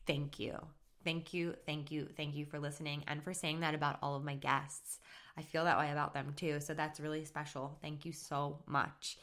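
touched and softly grateful; heartfelt thanks. Real, not acted. Sincere thanks to a listener's review.

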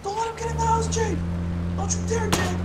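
high strained whisper-scream; whisper yelling. Real, not acted. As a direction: yell it but keep it hushed. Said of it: "I love the whisper screams".

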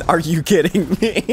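words breaking into high laughter; helpless high giggle at the end; disbelieving laughter. Real, not acted. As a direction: crack up in disbelief. Disbelief at the game.

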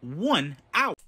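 robotic phone menu voice; automated phone system voice. Acted. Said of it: "automated voice messaging system".

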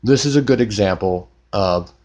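talking round a wad of gauze in the mouth. Real, not acted. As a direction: mouth stuffed with gauze after a tooth pulled. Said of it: "my voice sounds really weird, like I have a bunch of stuff in my mouth".

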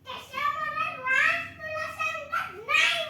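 worked-up objection to mother; real shouting protest. Real, not acted. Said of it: "इतका कशाला ओरडतोयस तू?".

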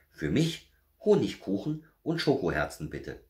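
put-on high, eager child-like voice; little bear. A narrator's reading. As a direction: make a wish as a bear cub. Little bear voices his wish. (hohe Stimme eines kleinen Bären)

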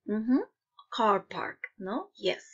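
ordinary delivery

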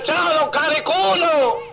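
slow, drawn-out mocking hello with a laugh; teasing greeting. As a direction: savor "Cariculo" as a taunt. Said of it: "pasaba el vecino y decía".

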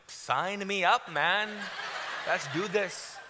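drawn-out eager acceptance; suddenly sold. Retold or imitated. Agreeing to brother's invite once blondes are mentioned, eagerly sold. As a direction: relish it slowly, instantly won over.

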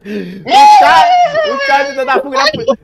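high-pitched laughing through the words. Real, not acted. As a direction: barely get it out while cracking up. Cracks up over the suspect.

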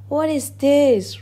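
high, indignant outburst; storybook roar, pitched high; angry roar. A narrator's reading. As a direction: demand it like an outraged duke. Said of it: "roared the Duke".

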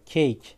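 Cake said keyk; correct reading. Shown as a demonstration. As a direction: model the English vowel. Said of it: "Cake'e dönüşüyor".

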